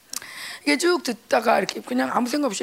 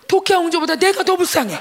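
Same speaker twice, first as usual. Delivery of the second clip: mock self-pity; 7 semitones higher, 6 dB louder than usual. Telling her daughter she's more pitiful.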